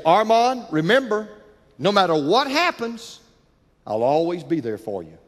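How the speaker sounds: put-on a dad at the school gate reassuring his boy; father's promise. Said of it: "and he'd say".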